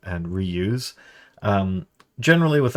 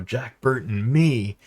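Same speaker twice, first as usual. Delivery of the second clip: arrogant Jack Burton; 4 semitones higher, slower than usual. Retold or imitated.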